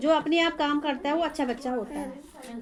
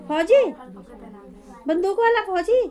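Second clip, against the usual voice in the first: excited; 4 semitones higher, 5 dB louder than usual. Real, not acted. Coaxing child about career.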